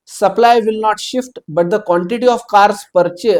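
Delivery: reading the exam question aloud, slowly; slow, deliberate read-out of the problem. Shown as a demonstration. Teacher reading the question to students, slow and deliberate.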